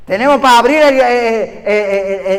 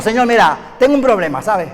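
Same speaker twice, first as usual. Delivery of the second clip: impatient prayer; 4 semitones lower, 4 dB quieter than usual. Retold or imitated.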